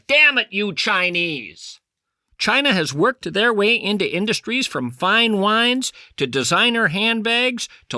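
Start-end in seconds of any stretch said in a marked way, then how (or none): 0.1-1.8 theatrical put-on outrage; slower, hammed-up curse. Host mocking angry purists, hammed-up curse. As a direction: drag out a mock-angry damn it. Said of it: "I've never said that before".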